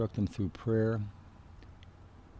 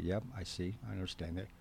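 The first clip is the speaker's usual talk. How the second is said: soft murmured acknowledgement; 7 dB quieter than usual. Retold or imitated. Counselor softly reassures a talking counselee, murmured. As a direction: murmur it like a patient listener.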